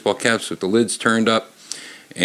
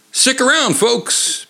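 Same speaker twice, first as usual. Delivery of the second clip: mild call-out; slower than usual. A narrator's reading. Peter calling out.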